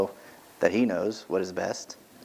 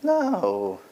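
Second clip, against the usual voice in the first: mock annoyed dismissal; 7 semitones higher, slower than usual. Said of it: "God's not like".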